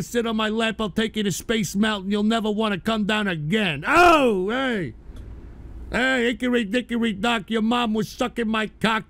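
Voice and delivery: lightly voiced cocky nightclub comic, punched 'Oh!'; Brooklyn wise guy. Streamer reciting dirty rhymes to a woman, mock wise-guy swagger. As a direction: recite like a strutting wise guy, with shouted tags.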